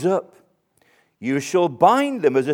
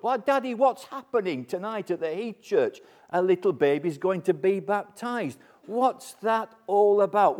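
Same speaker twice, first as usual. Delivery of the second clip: put-on higher, softer child's question; child asking dad; 4 semitones higher, 4 dB quieter than usual. Preacher voicing a child asking daddy, lightly higher.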